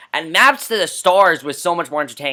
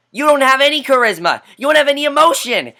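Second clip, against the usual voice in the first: ranting; 8 semitones higher, 5 dB louder than usual. Real, not acted. Ranting at actor.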